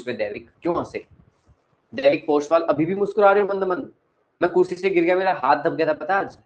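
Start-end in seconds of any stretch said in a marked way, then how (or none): 1.9-6.4 louder, higher mock-hurt complaint; mock indignation. Real, not acted. Teacher playfully scolding a student for smiling at him, louder. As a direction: playfully accuse the grinning student.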